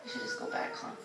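sly, sweet little proposal; coaxing suggestion. Retold or imitated. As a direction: tempt him to turn around. Coaxing spouse in the truck.

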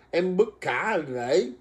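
slow, laughing quote of a viewer's offer; laughing while reading a viewer's comment; quoting with a laugh. Retold or imitated. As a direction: read her line while giggling. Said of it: "Thì Hương Đỗ nói là".

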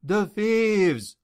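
feigned wounded cry, pitched high; mock-dying man's alarm; artistic groaning. A narrator's reading. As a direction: gasp it out like a faker playing injured. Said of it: "groaning artistically".

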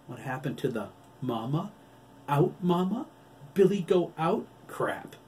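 high, mocking baby-talk taunt. A narrator's reading. Doctor mocks the wolf's old begging, taunting. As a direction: mimic a childish plea to mock him. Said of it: "she taunted".

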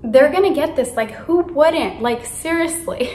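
excited self-confidence. Retold or imitated. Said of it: "I was, like, so excited".

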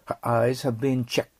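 slow model sentence, checked ending in a bare 't'; crisp final T. Shown as a demonstration. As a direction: say checked crisply, no D and no vowel after the T. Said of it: "歯切れよくね".

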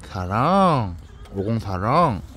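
affectionate cooing. Real, not acted. Cooing love at the dog.

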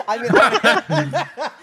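words squeezed out through laughter; laughing. Real, not acted. Streamer cracking up at chat, laughing. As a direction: laugh while trying to talk.

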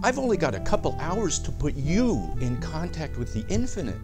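exasperated pleading. Acted. Doctor Torpor pressing a client for a reading, exasperated. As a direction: push the reluctant client, pitch jumping up.

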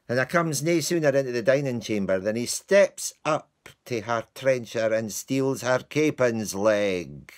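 broad Scots servant telling his tale; Scots-accented Shakespearean servant; Lance in Scots. Acted. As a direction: play Lance as a rueful Scots clown. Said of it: "I was asked to do Lance's speech".

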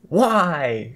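high, loud wail; anguished cry. A narrator's reading. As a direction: cry out in mock despair. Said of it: "she cried".

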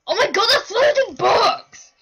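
loud amazed exclaim; excited shout. Real, not acted. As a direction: burst out in delight. Finds loot, exclaims.

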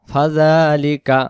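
drawn-out Quran reading; slow recitation. Shown as a demonstration. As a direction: stretch each syllable in tajweed. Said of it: "recites the joined word slowly". (ধীরে তিলাওয়াত)

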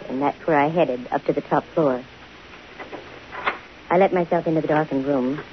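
lowering the voice as the mystery clears; story narration. A narrator's reading. Detective narrates, lower and softer in the darkened room.

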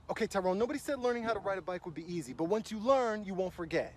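ordinary talk, nothing marked

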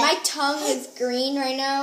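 talking around sour candy; words with a sour mouthful; eating sour candy. Real, not acted. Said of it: "this is so sour".

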